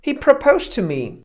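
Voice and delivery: bragging excitedly. Shown as a demonstration. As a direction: brag about the proposal. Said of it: "jedna się drugiej na przykład chwali".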